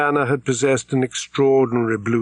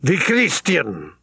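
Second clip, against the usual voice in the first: announced; 5 semitones higher, slower than usual. A narrator's reading. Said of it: "said Greybeard loudly".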